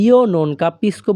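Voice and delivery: slow teaching demo. Shown as a demonstration. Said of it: "আর যদি".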